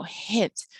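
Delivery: "hint" with its short i held a little; slightly stretched vowel. Shown as a demonstration. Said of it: "It stretches out a little bit".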